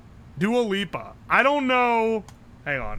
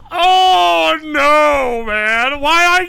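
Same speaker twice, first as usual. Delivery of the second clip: laughing shout; 7 semitones higher, 10 dB louder, much slower than usual. Real, not acted. Embarrassed laughing outburst.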